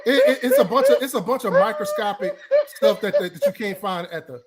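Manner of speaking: talking through laughter; laughing. Real, not acted. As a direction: chuckle through the words. Laughs while defending himself.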